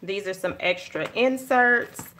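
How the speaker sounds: ordinary talk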